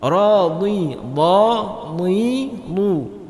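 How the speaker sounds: dha, ni, lu syllables with a pressed dhad; teacher drilling dha ni lu. Shown as a demonstration. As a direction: press the dha hard, then ni and lu. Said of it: "tidak berangin".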